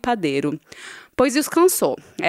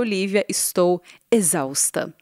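a tired, breathless whisper. Real, not acted. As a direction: whisper the confession. Confessing she is exhausted.

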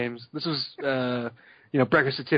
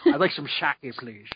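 Scottish slur, "sake" said as "shaky"; Sean Connery. Retold or imitated. Host quotes spy ordering "sake", shushed Scottish S. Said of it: "Sean Connery doing a Japanese accent".

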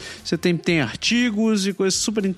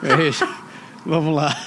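ainda rindo; 3 semitones lower than usual. Real, not acted. Tenta retomar ainda rindo.

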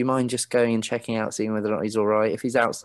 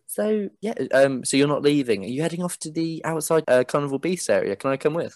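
chirpy man; 5 semitones higher than usual. Acted. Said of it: "he leans back out again and he goes".

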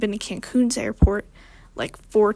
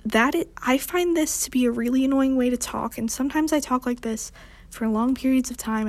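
higher cadence; 3 semitones higher than usual. Shown as a demonstration. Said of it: "talk in my higher cadence".

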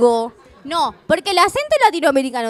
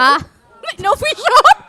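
high-pitched laughing "no fui yo"; laughing denial; 10 semitones higher, 7 dB louder, slower than usual. Real, not acted. Risa al oír acentos. (negándolo entre risas agudas)

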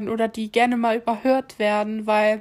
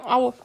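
heartburn pain. Real, not acted. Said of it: "warum hab ich plötzlich Sodbrennen?".

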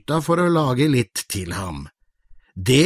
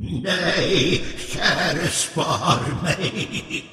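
quiet begging troll, half laughing; a frightened troll asking for mercy; pleading troll; 3 semitones higher, 5 dB quieter, much slower than usual. Acted. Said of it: "sa trollet".

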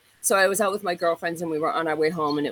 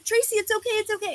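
high imitation of a worried friend; pleading friend; 14 semitones higher than usual. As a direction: plead with Tracy in a small worried voice.

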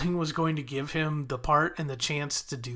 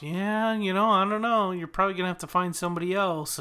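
mock casual brush-off; 4 semitones higher than usual. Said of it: "is playing off".

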